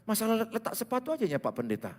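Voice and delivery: lightly voiced husband, pitched high; high-pitched acted reply; husband answering pastor. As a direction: explain a petty quarrel to the pastor. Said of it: "Saya tanya".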